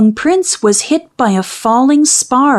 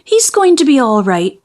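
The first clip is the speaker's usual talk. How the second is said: grateful; 3 semitones higher than usual. Acted.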